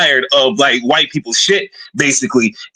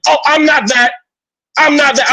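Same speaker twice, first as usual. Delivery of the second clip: very high-pitched mimicked protest; squeaked-up mocking objection; mock denial; 11 semitones higher than usual. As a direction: imitate a defensive denial way up high. Mimicking opponent denying the insult.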